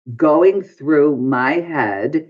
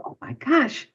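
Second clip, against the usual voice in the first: alarmed gasp; 11 semitones higher, 6 dB quieter than usual. Retold or imitated. Panic in the retold moment.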